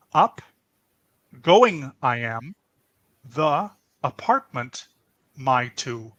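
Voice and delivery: lightly voiced wise little alien, odd word order; mild mock Yoda; Yoda impression. Shown as a demonstration. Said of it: "Maybe I sound like Yoda".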